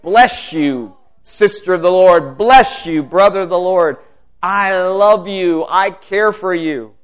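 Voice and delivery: fervent blessing to church members. Real, not acted. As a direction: pour love out over the group.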